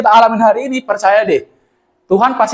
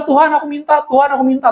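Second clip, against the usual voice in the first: pleading prayer; 5 semitones higher than usual. Retold or imitated. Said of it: "mungkin kita akan bilang".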